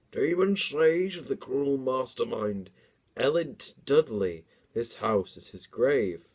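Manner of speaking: slow, ominous storyteller aunt; lightly voiced eerie old aunt; spooky aunt voice. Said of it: "explained old Auntie J".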